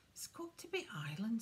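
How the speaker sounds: lightly mumbled through food; a hint of a full mouth. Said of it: "thickly through a mouthful of potato".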